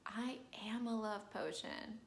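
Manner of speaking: breathy confident whisper; soft self-assured whisper. Acted. Adina refusing the potion, slow soft whisper. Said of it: "Adina's like".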